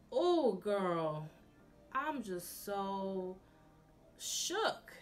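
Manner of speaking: theatrical disbelief at a cheap date; dramatic mock outrage. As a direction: play up the shock, diva style. Mocking outrage at the cinema.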